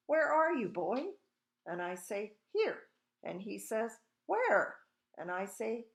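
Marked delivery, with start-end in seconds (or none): 0.1-1.1 loud, high searching shout. A narrator's reading. Father hunts for his invisible son, shouting. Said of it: "he shouts". 2.5-2.9 very high-pitched chirp; piping little boy. A narrator's reading. Invisible boy answers his mother, piping up. 4.2-4.8 high, loud questioning shout; bewildered father. A narrator's reading. Father hunts for his invisible son, bewildered shout.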